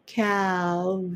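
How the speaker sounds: Cavalry very slow, V stressed; slow model cavalry. Shown as a demonstration. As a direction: demonstrate the V in Cavalry slowly. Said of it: "Vの音ですね". (Vを意識してゆっくりCavalry)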